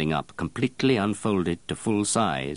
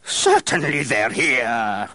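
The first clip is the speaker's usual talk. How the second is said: roar; 6 semitones higher, 5 dB louder, much slower than usual. Acted. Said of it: "roared Baldini".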